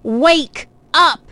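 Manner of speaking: high, punched-out wake-up call; shouted wake-up call. A narrator's reading. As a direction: shout it like an alarm clock. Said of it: "it shouted".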